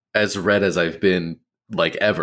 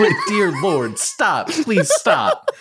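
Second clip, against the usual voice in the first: put-on German accent; 11 semitones higher, much slower than usual. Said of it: "with German accents in mind".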